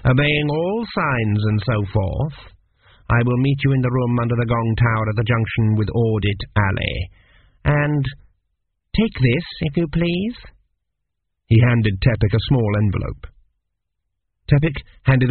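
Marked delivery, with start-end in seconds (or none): 0.0-10.4 even examiner. Acted. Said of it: "said Meriset evenly".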